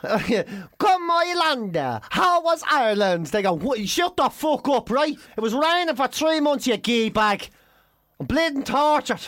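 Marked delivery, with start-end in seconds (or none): 0.0-3.3 higher-pitched mock mother's greeting; imitated Spanish mother. 3.5-9.2 higher-pitched, hammed-up Irish accent; mock Irish accent.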